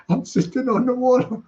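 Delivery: a hint of put-on Geordie; attempted Geordie accent. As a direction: try a teasing bit of Geordie. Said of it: "I don't sound like a Geordie".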